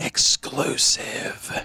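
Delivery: hushed, breathy whisper. Recalling how someone voiced over a clip, whispered exclusive. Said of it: "he whispered it".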